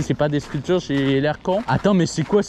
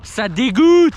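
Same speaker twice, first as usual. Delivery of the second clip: mock disgusted shout; 5 semitones higher, 7 dB louder, much slower than usual. Mock outrage at racists.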